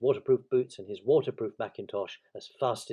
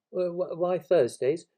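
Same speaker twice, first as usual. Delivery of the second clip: slow, higher, hesitant question; puzzled stammer; 7 semitones higher, 6 dB louder, slower than usual. Acted. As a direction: stumble into a baffled question.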